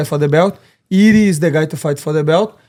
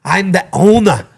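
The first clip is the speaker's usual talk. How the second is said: Conor McGregor impression; 3 dB louder than usual. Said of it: "how McGregor talk to".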